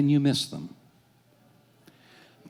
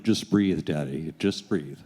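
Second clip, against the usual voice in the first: reassuring; 5 semitones lower, slower than usual. Retold or imitated. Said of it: "My daughter's going".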